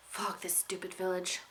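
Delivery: whispered curse under the breath; muttered curse. Acted. Unicorn swearing to himself mid-chase, whispered. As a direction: hiss it under your breath.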